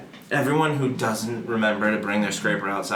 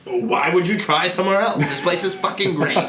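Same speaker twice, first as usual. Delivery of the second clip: high, put-on boastful voice; mock lifer local; 7 semitones higher than usual. Mocking people who never leave home, in a higher put-on boast. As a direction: sneer as a proud lifer.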